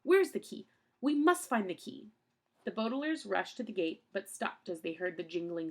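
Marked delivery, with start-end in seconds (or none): 0.0-2.1 high, loud and urgent; crying out. A narrator's reading. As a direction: cry out frantically. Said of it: "he cried to the children".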